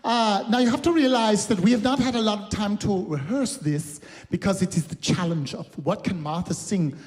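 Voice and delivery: chatting in a put-on German accent. Performer telling the audience about the singing challenge, German accent. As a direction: keep up the German character between songs. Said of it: "stop doing the German accent".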